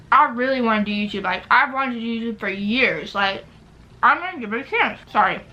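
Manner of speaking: talking through a mouthful of food; words round a bite of food; mouth full. Real, not acted. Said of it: "talking with my mouth full".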